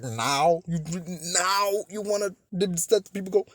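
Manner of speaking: high, loud, incredulous questioning; indignant disbelief. Acted. Viewer challenging the character for freeing people now, indignant. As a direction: throw it back in sheer disbelief, voice climbing. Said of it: "I'm just like".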